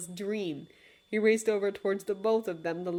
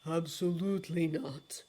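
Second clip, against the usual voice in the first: snapped; 2 semitones lower, 4 dB quieter than usual. Acted. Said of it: "Dream snapped".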